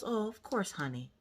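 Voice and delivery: soft, falling reassurance; imitated soothing dad. Dad agreeing to hold daughter, softly imitated. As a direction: hush it down gently.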